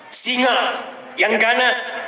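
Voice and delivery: pelan menekan. Real, not acted. Menggambarkan singa ganas.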